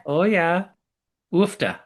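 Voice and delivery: mock Minnesota "Oh, yeah. Oofta"; Minnesota accent. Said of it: "That's perfect".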